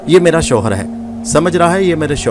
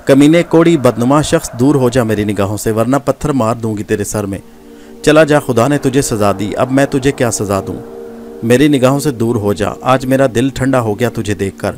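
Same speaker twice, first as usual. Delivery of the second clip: furious dismissal. Acted. Gohar ordering Nadir out of her sight, furious and scornful. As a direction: drive him away with contempt. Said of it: "بڑے غصے کے تاثرات".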